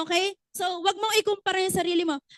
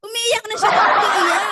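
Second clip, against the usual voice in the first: laughing through a mock wail; hammed-up crying, laughing; 4 semitones higher, 7 dB louder than usual. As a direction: fake a sob while cracking up. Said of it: "Paano umiyak?".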